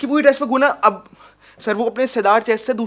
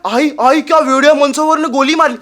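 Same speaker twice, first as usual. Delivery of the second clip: loud, higher imitated boy; panicked cry; 5 semitones higher, 7 dB louder than usual. Boy telling his mother of gunfire, panicked cry. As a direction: call out to mother in alarm.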